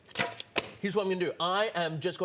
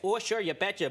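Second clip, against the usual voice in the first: put-on light North Midwest accent; a quick Minnesota "you betcha"; folksy Midwest twang, lightly done; 3 semitones higher than usual. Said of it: "they're from the North Midwest".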